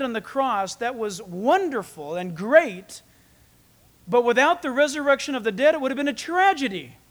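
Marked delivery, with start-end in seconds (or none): 4.1-7.0 preaching emphasis. Real, not acted. Preacher stresses the resurrection.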